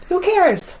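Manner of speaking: high, loud, cheeky shrug of a line; sassy dismissal. Acted. The sun shrugging off its size, sassy. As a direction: toss it off like a diva who doesn't care. Sun brushes off being dim.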